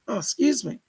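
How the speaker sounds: speaking through hiccups; hiccuping. Real, not acted. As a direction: excuse yourself mid hiccups. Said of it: "Sorry, I'm hiccuping".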